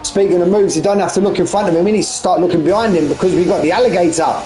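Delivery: keen motorsport commentator; live race commentary. Real, not acted. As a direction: build the chase for the viewers.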